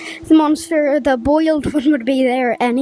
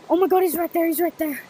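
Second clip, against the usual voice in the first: panicking gamer; 3 semitones higher, much faster than usual. Real, not acted. Monster close again.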